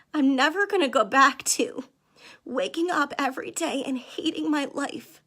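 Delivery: tearful and pushing through, voice lifting; fighting back real tears to finish the thought; emotional. Real, not acted. Host telling viewers about her old misery, tearful and strained. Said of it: "I'm getting emotional".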